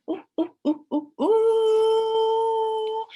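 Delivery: high, loud monkey hooting; excited monkey. Acted. Teacher voicing the puppet monkey for the class, loud high hoots. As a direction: hoot like a thrilled monkey. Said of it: "Chunky Monkey was like".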